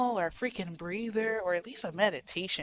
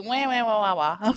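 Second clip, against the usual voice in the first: mock crying wahs; 4 dB louder than usual. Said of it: "what are you crying for".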